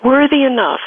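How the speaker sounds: tearfully, holding back real crying. Real, not acted. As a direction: speak through real tears. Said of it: "I still can't say it without crying".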